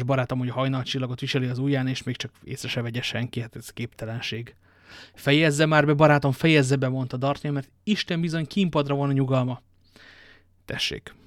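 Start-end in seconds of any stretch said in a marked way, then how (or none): 5.1-6.9 türelmetlen sürgetés. Acted.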